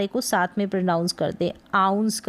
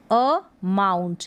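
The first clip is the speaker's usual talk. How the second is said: अमाउंट slowly, with अ set apart from माउंट; अमाउंट in two parts, "uh... mount"; separated first sound; much slower than usual. Shown as a demonstration. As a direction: press on the अ of अमाउंट, then say माउंट. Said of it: "ज़्यादा pressure दे के पढ़ेंगे".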